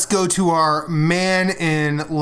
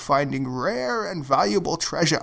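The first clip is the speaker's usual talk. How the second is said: lightly voiced old sage Deckard Cain; a hint of the wise old Diablo scholar. Host slips into a light Deckard Cain voice for the show. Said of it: "I could do Deckard Cain".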